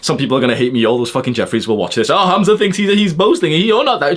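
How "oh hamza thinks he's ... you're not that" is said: high, sneering imitation of a critic; high mocking whine; mocking hater voice. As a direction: mimic the whiny hater.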